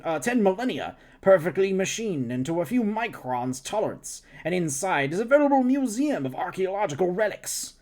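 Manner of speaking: lightly voiced eager scientist. Scientist lecturing voice.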